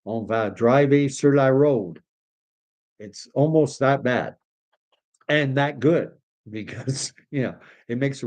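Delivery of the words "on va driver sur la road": mixing French and English, slow and a touch higher; franglais demo. Shown as a demonstration. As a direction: show off the Acadian Chiak franglais. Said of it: "it is franglais".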